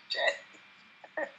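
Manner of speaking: breathy whispered shit, under the breath; whispered curse. Retold or imitated. Whispering a quoted curse to the host. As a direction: drop it to a whisper. Quoted reaction after "it's like.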